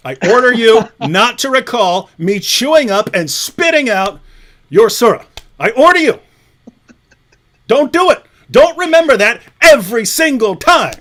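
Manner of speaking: loud, hammed-up decree to the fans; mock commanding order. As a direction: order them about like a tyrant, half joking.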